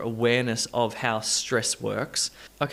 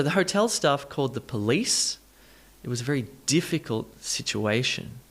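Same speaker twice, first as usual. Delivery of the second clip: police, difficult, situation: stressed po-LICE, DIF, A; measured model of police, difficult, situation stresses; word stress demonstration. Shown as a demonstration. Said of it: "this stress moves".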